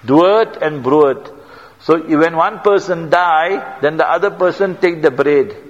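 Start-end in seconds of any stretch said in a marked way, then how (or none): 0.0-1.3 "Dood and brood" drawn out slowly, each word laid down; slow rhyming words. Shown as a demonstration. Preacher explaining an Afrikaans proverb, slow and deliberate. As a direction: spell out "Dood and brood" slowly so the rhyme lands. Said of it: "Een man se dood is ander man se brood".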